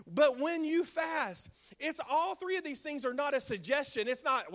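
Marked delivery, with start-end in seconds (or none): 0.1-1.5 slow quote. Shown as a demonstration. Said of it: "He tells us a third time".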